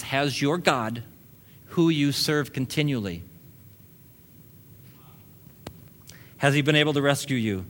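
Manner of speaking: slowed right down, each word weighed. Retold or imitated. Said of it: "He says".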